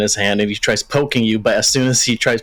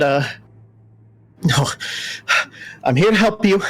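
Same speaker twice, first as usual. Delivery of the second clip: stammering apologetic owl; lightly voiced nervous owl. Owl apologizes for waking the party, lightly stammering. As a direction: apologize and reassure at once.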